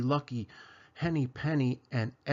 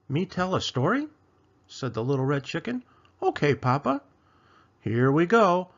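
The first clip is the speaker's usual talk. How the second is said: excited chick voice; 3 semitones higher, 3 dB louder than usual. Acted. Chicken excited to tell story.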